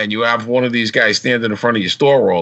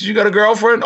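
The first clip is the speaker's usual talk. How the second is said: surprised question; 10 semitones higher than usual. Retold or imitated. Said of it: "I said".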